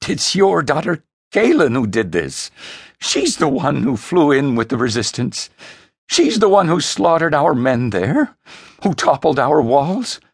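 high, loud accusing outburst; overwrought, stammering self-justification; frantic protest. Acted. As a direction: shout your defence at a high pitch. Son hotly defends himself, blaming sister.

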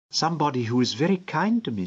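put-on a child answering the stranger; lightly voiced little girl. A narrator's reading.

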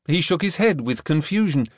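usual speaking voice

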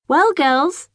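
put-on high, fluttery old lady voice; fussy neighbour. A narrator's reading. Old neighbour greeting the twins in a high, gushing voice. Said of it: "she says".

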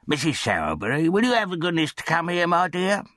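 high, rising call to a spouse; undertaker calling his wife. A narrator's reading. Undertaker summons his wife from the back room, high-voiced calling. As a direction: call her in from the back room, pitched well up.

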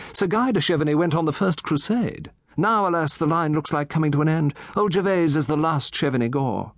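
put-on a chatty old gentleman relishing his tale; Satterthwaite. Satterthwaite tells history.

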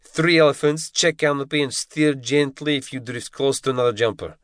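shouting instructor, fading to talk. A narrator's reading. Instructor drills the trainees on the checklist, shouting. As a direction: bellow the checklist then ease off.

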